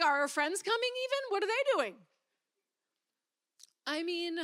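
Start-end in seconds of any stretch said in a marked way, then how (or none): 0.0-2.1 irritated demand. Retold or imitated. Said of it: "I'm like".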